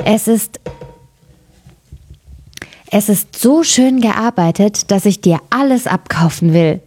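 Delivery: lightly voiced happy princess; mildly delighted princess. A narrator's reading. Princess admiring the goldwork, mildly delighted. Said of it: "war sie ganz glücklich und sprach".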